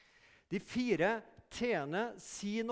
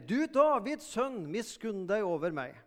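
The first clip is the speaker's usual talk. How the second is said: crying out louder; 5 dB louder than usual. Retold or imitated. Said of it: "han ropte enda mye mer".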